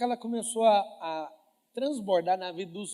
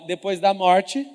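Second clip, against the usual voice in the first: slow, loud, drawn-out line for the crowd to echo; slow call to repeat; 10 dB louder, much slower than usual. Shown as a demonstration. Preacher prompts the congregation in a slow chant. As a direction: lay it out slowly for them to repeat. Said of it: "Fala assim, ó".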